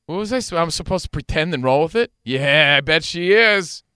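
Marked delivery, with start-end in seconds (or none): 2.2-3.8 fake agreement. Mock faking knowing slang.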